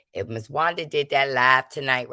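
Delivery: whispered aside to the chat. Real, not acted. Speaker whispering to the chat about Wanda's live. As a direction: lean in and whisper it.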